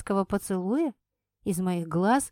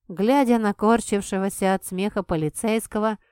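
usual speaking voice

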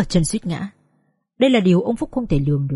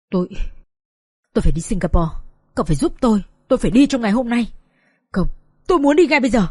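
panicked; faster than usual. Acted. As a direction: insist desperately on leaving at once. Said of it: "ông Phúc hốt hoảng như lúc này".

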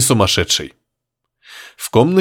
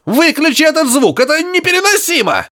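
much higher, pained yell; frantic cry. A narrator's reading. Professor in agony begging through the radio, much higher. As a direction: beg it to stop, desperate.

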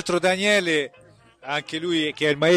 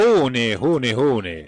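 fading echo repeating the word; echo effect; 5 semitones lower, much slower than usual. Pretend. Echoing the name in the jingle.

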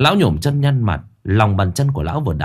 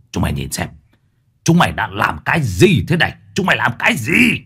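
angry demand. Acted. Old man shoving boy at corpse.

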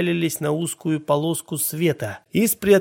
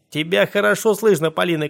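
a touch louder, raised call; mild shout; 3 semitones higher, 3 dB louder than usual. Acted. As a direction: call out to Polina from the bathtub. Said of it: "крикнул я".

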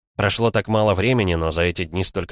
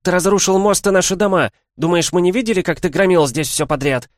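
angry yell; 12 semitones higher, 6 dB louder than usual. A narrator's reading. Angry villager yelling at lord.

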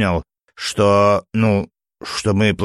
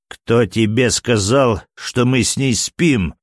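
barked; 4 semitones higher than usual. Acted. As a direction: snap it at him, slowly. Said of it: "рявкнул скрипач". (рявкнул медленно и громко)

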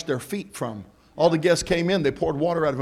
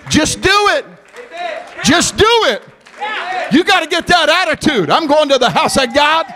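shouted, much higher and louder, stretched out; preaching at full force; 12 semitones higher, 9 dB louder than usual. Acted. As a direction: whoop it up to the rafters. Preaching climax.

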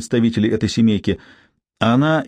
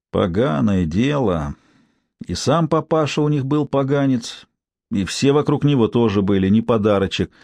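through gritted teeth. Acted. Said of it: "процедила".

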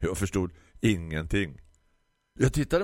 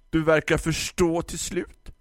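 grumpy florist; 10 semitones higher, 3 dB louder than usual. Acted. Florist lectures the customer about ordering online, high condescending voice.

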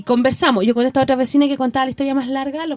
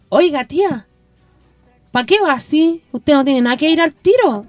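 put-on higher, louder young girl scolding; girl's scolding voice; 3 semitones higher, 4 dB louder than usual. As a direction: imitate a bossy girl telling her off. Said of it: "Y me hablaba así la niñita".

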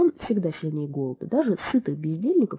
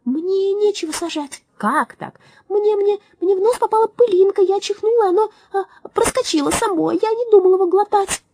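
tearful little mouse; 12 semitones higher, 5 dB louder than usual. Acted. Tiny mouse confesses swallowing grain.

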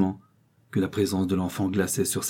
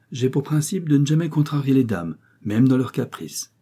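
higher, mock-courteous gentleman; lightly voiced gallant visitor; 6 semitones higher, 4 dB louder than usual. A narrator's reading. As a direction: lightly play a man conceding to a lady.

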